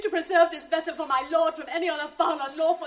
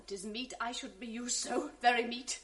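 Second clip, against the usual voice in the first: numbed grief; 4 semitones lower than usual. Acted. Wife to maid after husband's insult, numb. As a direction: speak from shock and hurt. Desdemona dazed, grief-struck.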